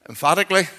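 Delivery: EMPHATICALLY said with firm force; emphatic. Shown as a demonstration. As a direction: punch the word Emphatically. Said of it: "and emphatically".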